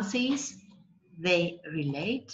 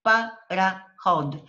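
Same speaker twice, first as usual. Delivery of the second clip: "Pa, ra, hod" in firm separate beats, louder; syllable by syllable; 5 dB louder than usual. Shown as a demonstration. Teacher shows ways of separating, syllable by syllable. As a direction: punch out each piece of "Pa, ra, hod". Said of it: "separating the word".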